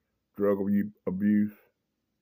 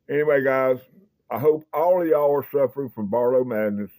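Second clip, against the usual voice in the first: excited; 4 semitones higher, 5 dB louder than usual. Real, not acted. Hyped sign-off to viewers.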